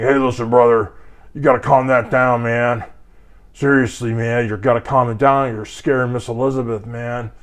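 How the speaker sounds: lightly voiced wrestler calming a guy down; Hulk Hogan impression. Speaker urging an angry man to calm down, in a light Hogan voice. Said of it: "Like a Hulk Hogan kind of thing".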